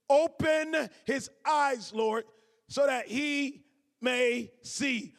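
slow, loud, pleading prayer. Acted. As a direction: pray it out word by word. Reads Elisha's prayer slowly.

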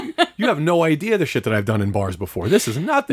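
laughing brag. Retold or imitated. Bragging to her while laughing.

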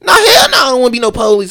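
high, loud laughing scoff; imitating a bystander laughing off joining the police; mock heckler. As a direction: cackle out the refusal like the heckler. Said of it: "He was like".

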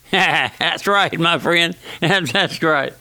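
chuckling as he agrees; amused preacher chuckling between phrases; amused chuckle. Real, not acted. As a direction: laugh lightly into the words. Laughs at own sheep-shearing story.

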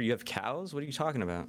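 lightly imitated bewilderment; mock confusion. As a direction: act out a baffled language learner. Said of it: "And they're like".

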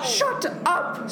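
very high outburst at moderate volume; acted, contained scream; storybook scream. A narrator's reading. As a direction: cut in with a high-pitched cry. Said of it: "screamed Toad".

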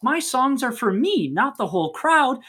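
high-pitched mock protest; lightly acted annoyance; mildly mad. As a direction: act out an indignant refusal, voice lifted. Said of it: "she gets mad at him".

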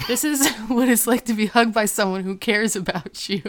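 quoting through real laughter; can't keep a straight face on the line; laughing. Real, not acted. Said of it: "I don't know why I'm laughing right now".

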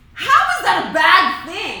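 incredulous outrage. Real, not acted. Outraged at the book.

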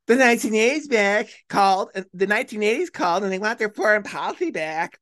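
a hint of a snarky spoiled schoolgirl; lightly mock Obama as a sneering rich girl. Host mimicking Obama's debate jab, a hint of snark. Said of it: "sounded like a snarky, spoiled, rich middle school girl".

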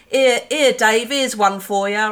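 retold lads' jeering shout. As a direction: call out loud across the pub. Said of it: "one of them shouted".

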